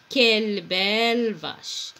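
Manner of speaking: slow exclamation stressing quelle; exclamatory tune. Shown as a demonstration. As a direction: hit quelle, fall through belle vache. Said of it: "Je dis".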